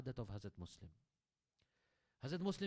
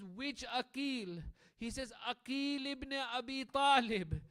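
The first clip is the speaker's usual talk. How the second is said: rising emotion; 8 semitones higher, 5 dB louder, slower than usual. Acted. Dialogue rising to recognition.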